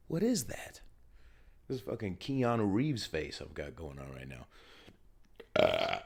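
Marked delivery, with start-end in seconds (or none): 0.1-0.8 exclaimed puzzled question; mock surprise. Real, not acted. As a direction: react in disbelief at the beard.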